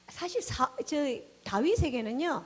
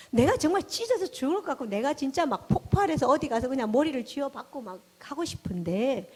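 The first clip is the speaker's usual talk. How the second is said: about to explode; 4 dB louder than usual. Retold or imitated. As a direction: voice mock anguish at bursting point. Voices a heart about to explode.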